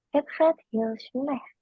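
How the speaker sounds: "het gaat heel slecht" said slowly, word by word; careful slow model for the learner; slow demo. Shown as a demonstration. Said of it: "How can you say it that fast?". (diucapkan pelan kata per kata)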